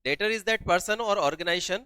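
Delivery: very slow, word by word definition; slow dictating teacher voice; dictation pace. Shown as a demonstration. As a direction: spell it out slowly for note-taking. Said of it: "dictating definition slowly".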